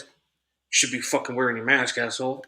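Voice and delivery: low, muttered jab; under his breath. Retold or imitated. Stranger passing him at the restroom, muttered insult. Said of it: "under his breath says".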